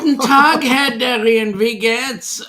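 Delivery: loud, high mock German greeting; hammed-up German host welcoming Darien; German accent. Hosting a cruise chat, greets Darien in hammed-up German accent. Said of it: "I will speak with the accent only this once".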